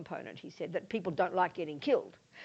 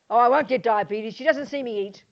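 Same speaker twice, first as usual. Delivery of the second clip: sneaky self-talk; 8 dB louder than usual. Acted. Sneaking cakes, doctor absent.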